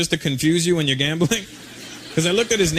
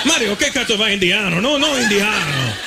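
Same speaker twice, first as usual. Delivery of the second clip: Italian freaking out; slower than usual. Acted. Italian told the guy is Indian, freaking out in Italian accent. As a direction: play a stunned Italian in thick accent. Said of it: "he would freak out".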